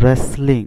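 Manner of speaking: রেসলিং starting on the R, W silent; pronounced from R. Shown as a demonstration. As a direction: say রেসলিং from the R onward. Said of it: "উচ্চারণ হয়েছে আর থেকে".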